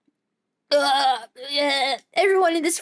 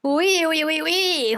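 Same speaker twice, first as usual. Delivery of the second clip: mock French accent; 3 semitones higher, slower than usual. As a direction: poke fun with a cheesy French accent. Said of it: "the stupid French accent".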